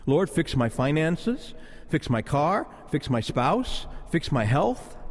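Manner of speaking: each request lifts at the end; measured list of petitions, rising endings; imitated shopping-list prayer. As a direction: rattle off wishes to God, mildly mocking. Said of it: "prays like this".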